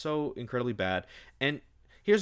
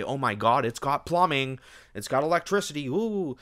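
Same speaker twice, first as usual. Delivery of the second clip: higher and louder, mock-thrilled over "plumbing"; mock amazement; 5 semitones higher, 4 dB louder than usual. Real, not acted. Mocking the heroine's fancy apartment, mock-amazed. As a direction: gush sarcastically as if it's a marvel.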